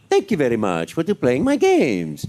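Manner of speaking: lightly voiced early Mario; original Mario voice. Shown as a demonstration. Veteran actor recalling his first game voice, original Mario. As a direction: give a hint of the older, talkier Mario. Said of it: "the original voice I did was".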